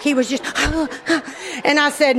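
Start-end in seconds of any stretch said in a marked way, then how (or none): 0.5-1.6 imitated breathless huffs; speechless gasping. Wife mimics shaken husband after tow, speechless gasping. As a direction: huff wordlessly, mimicking someone too shaken to talk. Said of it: "he couldn't even talk".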